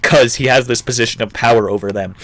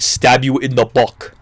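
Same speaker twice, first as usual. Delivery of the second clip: light mock Sicilian accent; a hint of put-on Sicilian accent; slower than usual. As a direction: slip into a Sicilian accent, "back" as "buck". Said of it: "how the Sicilians would say it".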